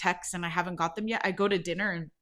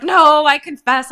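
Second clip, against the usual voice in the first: louder, higher, slower mock protest; Thomas protesting; 7 semitones higher, 16 dB louder, slower than usual. Thomas insisting to his friend that he confessed, loud mock protest.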